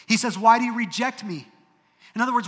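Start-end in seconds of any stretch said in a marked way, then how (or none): 0.4-1.5 higher, louder cry of why; anguished question. Acted. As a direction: throw the question at God. Job's question repeated with force.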